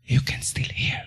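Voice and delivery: hushed, voiceless whisper. Shown as a demonstration. Preacher showing that even a whisper is heard, whispered. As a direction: whisper it softly to the listeners. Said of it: "Kahit napapulong siya".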